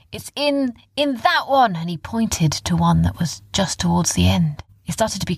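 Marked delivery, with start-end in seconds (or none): 0.1-1.8 higher, eager pointing out; higher urgent there it is; excited. Acted. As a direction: found it, point it out fast. Orrin spotting the crystal.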